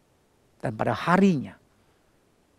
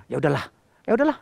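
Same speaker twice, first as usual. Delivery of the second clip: hasty giving in; much faster than usual. Retold or imitated. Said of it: "sedih dia".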